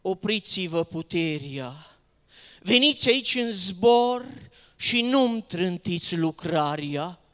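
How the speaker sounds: loud declaimed summons; urgent divine command. Acted. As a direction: call out as a commanding heavenly Father. Divine Father commands a halt.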